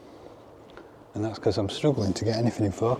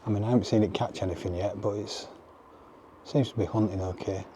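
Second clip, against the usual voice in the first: crunching chips. Real, not acted. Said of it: "Sorry for the crunching".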